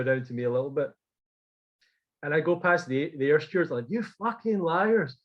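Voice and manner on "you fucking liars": high, slow, accusing yell; shouting at them. Retold or imitated. Telling off the stewards who lied, angry yell. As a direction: spit out the insult at them. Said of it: "shouting at them".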